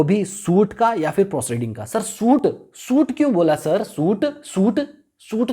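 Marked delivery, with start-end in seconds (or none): 1.8-5.5 a higher, eager student asking; curious student. Pretend. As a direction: pipe up as a puzzled pupil. Student questions teacher playfully. (ऊँची आवाज़ में उत्सुक छात्र का सवाल)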